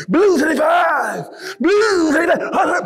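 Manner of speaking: high, loud, drawn-out snap count; quarterback's call. Retold or imitated. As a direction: bark the count at the line like a QB. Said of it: "my quarterback is like".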